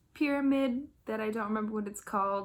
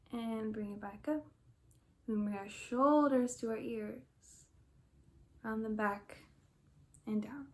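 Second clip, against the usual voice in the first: gentle movement guide with long pauses; unhurried, calm meditation instruction; guided meditation. Real, not acted. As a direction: lead a stretch calmly, pausing between each instruction. Leads gentle stretching and breathing.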